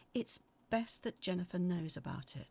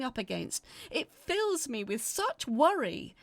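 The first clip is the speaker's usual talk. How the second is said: desperate plea; 4 semitones higher, 5 dB louder than usual. Acted. Letter writer's desperate plea.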